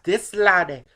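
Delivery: lighter Scottish Connery lilt ending on laddie; a milder Scottish take on Connery; Sean Connery Scottish. Retold or imitated. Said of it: "talking like this".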